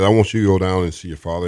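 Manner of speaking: loud, commanding retelling of God's words; booming voice of God. Retold or imitated. Testifier booming God's command to visit his father. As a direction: proclaim it like a divine order.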